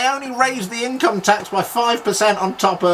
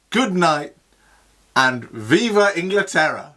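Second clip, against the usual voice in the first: triumphant commentator sign-off. Acted. Triumphant sign-off as Barry Linker.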